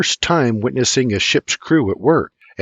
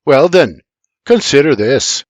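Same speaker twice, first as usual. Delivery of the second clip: Irish man voice; 2 semitones higher, 5 dB louder than usual. Acted. James Junior character voice.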